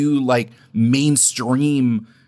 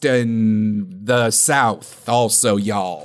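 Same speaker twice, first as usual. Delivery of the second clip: bad American accent; 4 semitones lower, slower than usual. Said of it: "not great at doing an American accent".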